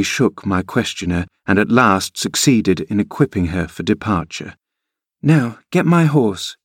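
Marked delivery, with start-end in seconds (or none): 5.2-6.6 put-on high, slow girlish command; imperious. A narrator's reading. Girl ordering kinsman as a stable boy, imperious. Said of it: "addressing her unknown kinsman as she would one of the stable".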